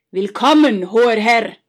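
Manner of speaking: loud, fake astonished welcome; feigned surprise. Brothers greeting the rich count at the inn, feigned surprise. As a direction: overplay surprise to fool the guest. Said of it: "begrüßten sie ihn scheinbar erstaunt".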